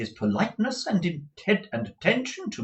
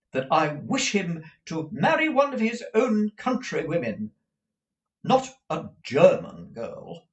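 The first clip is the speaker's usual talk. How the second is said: high, opinionated motherly declaration; high-voiced, swooping insistence; emphatic; 9 semitones higher, 4 dB louder than usual. A narrator's reading. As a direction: declare it firmly, punching key words. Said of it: "Missus Nickleby emphatically".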